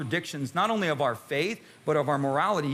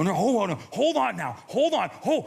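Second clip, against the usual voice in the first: calming hold on. Real, not acted. Preacher calming a murmuring congregation, insistent. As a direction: settle the crowd down, firmly. Audience pushback, calming them.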